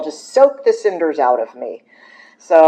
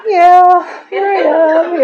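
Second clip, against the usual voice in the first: high, loud swaggering "here I am"; cocky entrance; 6 dB louder, much slower than usual. Retold or imitated. She imitates her cocky younger self walking into AA, high and loud. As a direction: show off like the star has arrived.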